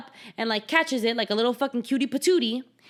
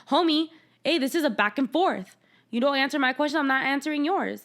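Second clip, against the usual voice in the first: raised, pointed Bella retort; sassy Bella; 4 semitones higher than usual. Retold or imitated. Bella telling Edward off, sassy and raised. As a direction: give it right back to him. Voicing Bella calling him out.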